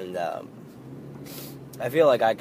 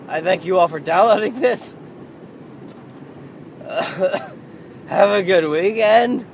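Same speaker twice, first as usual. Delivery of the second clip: laughing; 7 semitones higher, 6 dB louder than usual. Real, not acted. Laughing sign-off with failing voice.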